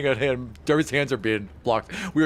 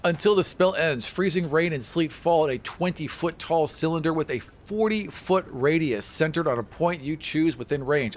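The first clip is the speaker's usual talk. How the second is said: villain voice; 4 semitones higher than usual. Acted. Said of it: "He's speaking his villain voice now".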